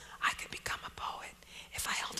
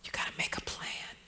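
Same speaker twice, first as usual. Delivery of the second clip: voiceless whispered quotes; whispering; 5 semitones lower, 6 dB quieter, faster than usual. Real, not acted. Writer advising young people who want to be poets, whispered. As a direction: whisper both sides of the exchange. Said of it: "just like I'm whispering right now".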